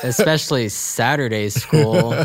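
slow, punchy trailer narrator; eighties trailer voice. Acted. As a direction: sell it like an old movie trailer. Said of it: "like, an eighties trailer".

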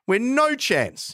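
high-pitched, incredulous impersonation; imitated high, emphatic scoffing; Christopher Pyne. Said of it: "hear him saying it in his accent".

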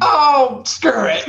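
high, breezy "oh, screw it"; mock careless writer. Writer rushing the ending, mock careless shrug. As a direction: toss it off like you're done caring. Imitating a lazy writer at the end.

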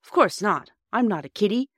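indignant. A narrator's reading. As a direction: protest at being babied. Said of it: "said the boy indignantly".

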